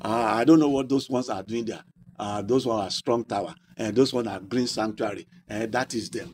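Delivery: low, offhand dismissal of other churches; dismissive church member. Acted. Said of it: "I should not just say".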